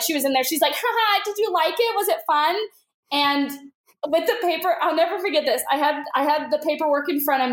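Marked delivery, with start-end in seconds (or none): 0.7-2.6 Kaylee. Retold or imitated. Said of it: "my friend Kaylee".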